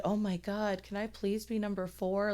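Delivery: mock-eager retort, heavily sarcastic; super sarcastic. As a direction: plead in fake enthusiasm, dripping with sarcasm. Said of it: "Like, super sarcastic".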